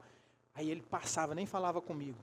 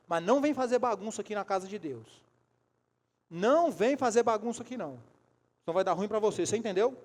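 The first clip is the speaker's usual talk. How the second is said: raised, firm scolding voice; forceful retold telling-off; stern warning; 3 semitones higher, 5 dB louder than usual. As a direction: lay down the law to a troublemaker.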